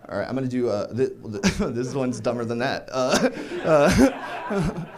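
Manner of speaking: ordinary delivery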